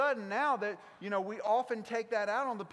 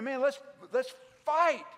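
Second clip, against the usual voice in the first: slow, loud rallying cry; big battle cry; 5 semitones higher, 7 dB louder than usual. Acted. Leader urges everybody into battle, big rousing cry. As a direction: draw it out high and loud, urging them to fight. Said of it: "it's the big moment, the big speech".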